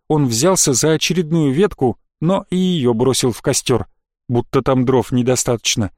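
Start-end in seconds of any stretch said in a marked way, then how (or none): none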